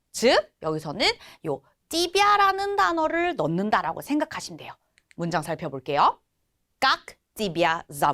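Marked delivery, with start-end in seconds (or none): 6.7-8.1 falling tone on зовут. Russian lesson, teacher models a question with a question word: pitch falls on зовут. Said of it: "의문사 있으니까 역시 떨어진 억양을 살려주셔야 됩니다".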